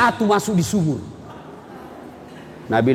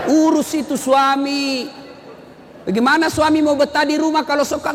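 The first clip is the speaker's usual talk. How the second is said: scolding shout; 5 semitones higher than usual. Real, not acted. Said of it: "preacher scolding the women". (bentakan keras dan pelan menegur para istri)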